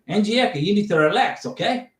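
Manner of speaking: attempted South African accent drifting Australian. Shown as a demonstration. Telling Angieka to relax in an amateur, Australian-leaning South African accent. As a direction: try South African, landing near Australian. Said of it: "It's kinda Australian".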